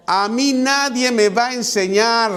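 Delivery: lightly acted swagger of a know-it-all; proud macho boast. Shown as a demonstration. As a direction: play the proud man nobody can teach. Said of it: "Escuche eso".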